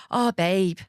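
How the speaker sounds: a light, drawn-out "oh, babe" in a glam mum's voice; imitating her sympathetic "babe". Mimicking the glamorous mum comforting her: cooing "babe". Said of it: "She said it like that".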